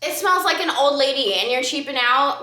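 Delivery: hammed-up angry rant at a stingy brand; mock rant. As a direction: drag each word out in exaggerated outrage. Ranting at cheap brand.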